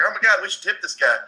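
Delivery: pitying onlooker. Retold or imitated. Californians deciding to tip the redneck, mock pity. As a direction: lightly imitate a well-meaning bystander.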